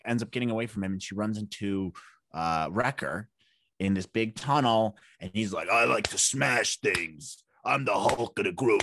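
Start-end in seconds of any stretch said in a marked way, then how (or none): 5.7-8.8 put-on slow, lunkish Bronx accent. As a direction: play a big smasher from the Bronx. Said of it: "I gave him that kind of accent".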